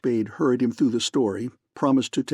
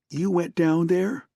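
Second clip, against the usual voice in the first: high, slow, disbelieving; slow, much higher, stunned; shocked accusation; 6 semitones higher than usual. A narrator's reading. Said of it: "It was not a question".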